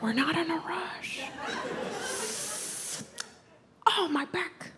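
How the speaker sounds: a hint of a worried mom; lightly voiced nervous mom. Mom character voice continued.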